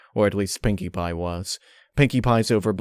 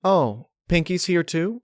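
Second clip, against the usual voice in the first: character voice; 10 semitones higher, 3 dB louder than usual. A narrator's reading. Character voiced in fan story.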